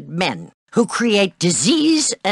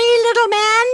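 taunting; 14 semitones higher, 4 dB louder than usual. Acted. Taunting a boy.

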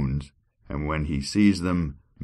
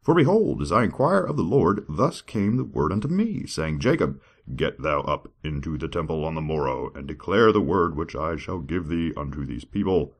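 God voice. Acted. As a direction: boom it out like God from the sky. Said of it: "that's my God voice".

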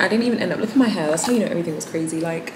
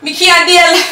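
higher Jamaican patois at normal pace, stress on can't; Jamaican accent, quicker; 12 semitones higher, 10 dB louder, slower than usual. Acted. To her viewers, tired of the rush, a quick Jamaican accent. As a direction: snap it back in a Jamaican accent. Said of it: "that's why I didn't do my Jamaican accent".

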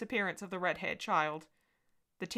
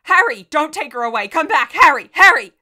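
much higher, much louder desperate pleading screams; demented screaming; 9 semitones higher, 20 dB louder than usual. A narrator's reading. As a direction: shriek after him as he takes her away.

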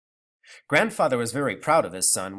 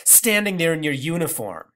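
scornful; 4 semitones higher, 5 dB louder than usual. Acted. Grandmother accusing.

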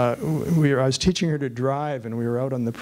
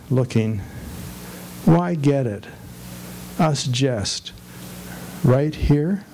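measured poem recital with pauses between lines; poetry reading; slower than usual. Acted. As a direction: read each short line deliberately, letting it fall at the end. Reads a poem aloud to an audience.

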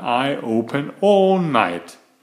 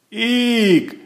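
1 squeal; 10 semitones higher, 3 dB louder than usual. Acted. Red hots burn her mouth.

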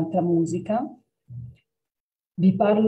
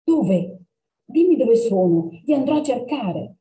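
higher, pressing and eager; eager girl; 5 semitones higher than usual. Acted. Girl begs the cat to tell her, eager. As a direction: she can't wait to know.

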